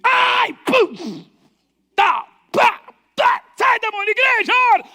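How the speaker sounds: high, loud exorcising yells; exorcism shouting. Retold or imitated. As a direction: bark out the exorcism at full force. Pastor expulsando demônio aos gritos. (gritos de exorcismo, bem alto e agudo)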